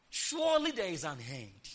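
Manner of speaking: rising to a high, ringing finish on the verse; proclaimed scripture. Real, not acted. Preacher proclaiming a promise to the congregation, ringing high. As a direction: declare the promise, soaring up at the end.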